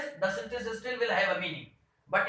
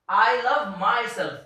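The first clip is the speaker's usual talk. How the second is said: slow, deliberate, louder classroom read; slow example reading; 6 dB louder, slower than usual. Shown as a demonstration. Teacher reading an example sentence to the class, slow and emphatic. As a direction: read it out clearly for the students. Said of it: "I will read the, uh, these, you can say, reflexive pronouns first".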